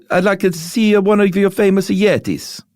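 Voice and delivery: high-pitched put-on accent, badly done; Alexander the Great voice. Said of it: "I don't know if that's what Alexander the Great sounded like".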